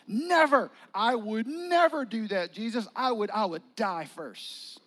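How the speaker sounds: loud, high, emphatic refusal; indignant protest. Retold or imitated. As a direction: insist you would never betray him. Peter protests to Jesus.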